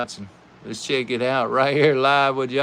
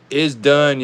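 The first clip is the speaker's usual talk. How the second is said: louder call that the car is out; loud verdict; 6 dB louder than usual. Real, not acted. Host announcing his favourite car is eliminated, loud. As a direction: declare it done with punch.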